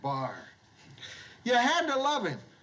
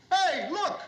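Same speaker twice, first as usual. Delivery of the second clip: put-on drunk voice; 8 semitones higher than usual. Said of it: "he says".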